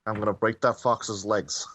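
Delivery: mock De Niro threat, dropping in pitch; Tony De Niro. Warning the fox not to lick him, mock De Niro. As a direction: threaten lightly, in De Niro's manner. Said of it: "Tony De Niro".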